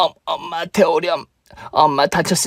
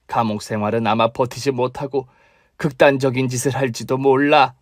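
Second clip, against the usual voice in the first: mother-in-law; 4 semitones lower than usual. Acted.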